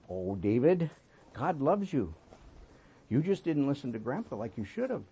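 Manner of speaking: reassuring grandpa. Retold or imitated. Grandpa comforting hurt grandson.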